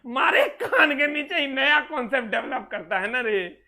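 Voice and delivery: laughing, mock threat of a slap; exasperated laugh at the student; laughing exasperation. Real, not acted. Teacher laughing at student logic. (हँसी में झल्लाहट)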